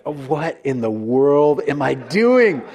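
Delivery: slow, defeated self-talk; dejected. Retold or imitated. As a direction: sag into it, mild despair. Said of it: "he was just dejected".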